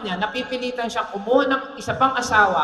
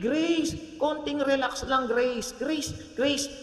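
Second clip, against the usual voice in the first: put-on soothing the baby; 3 semitones higher, 6 dB quieter, much slower than usual. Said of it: "iyak pa rin na iyak ang baby".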